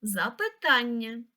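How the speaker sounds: запитання with the weight on тан; stress on third syllable. Shown as a demonstration. Teacher checking words against the dictionary, third syllable of запитання stressed. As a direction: lean on the third syllable of запитання, za-py-TAN-nya. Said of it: "Наголос на третій склад".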